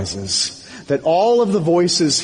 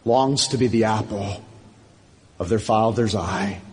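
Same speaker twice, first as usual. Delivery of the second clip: lower, quieter preaching with pauses; gentle altar-call appeal; 4 semitones lower, 4 dB quieter than usual. Real, not acted. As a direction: softly invite them home, phrase by phrase. Pastor's soft closing appeal.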